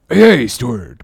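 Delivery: calling the steward sharply; called out. Acted. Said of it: "cried Stubb".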